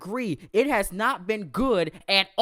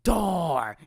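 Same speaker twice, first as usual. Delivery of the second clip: Cole Train voice; 4 semitones lower, 5 dB louder, slower than usual. Pretend. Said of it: "in my Cole Train voice".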